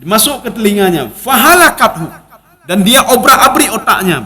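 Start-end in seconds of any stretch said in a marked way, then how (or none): 2.7-4.2 laughing. Real, not acted. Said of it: "Ya, obrak-abrik otaknya".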